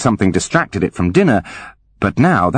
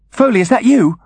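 dazed Holly; 13 semitones higher, 3 dB louder than usual. Acted. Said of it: "Holly may have said this aloud".

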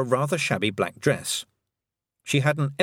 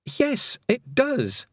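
grateful; 14 semitones higher, much slower than usual. Acted. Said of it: "said Tiffany gratefully".

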